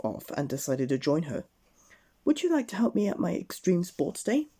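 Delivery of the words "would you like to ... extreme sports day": raised, eager invitation; bright Miss Brave voice. Acted. Miss Brave inviting Mister Bump to sports day, high and eager. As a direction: ask it high and keen. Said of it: "she asked".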